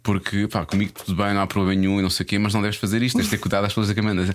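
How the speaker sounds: paternal advice. Retold or imitated. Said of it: "Fui, fui paternalista".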